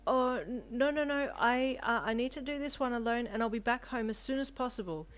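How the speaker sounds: high, loud, stammering refusal; nervous, flustered. A narrator's reading. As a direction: blurt it out, flustered and evasive. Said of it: "fiddling with the doorknob nervously".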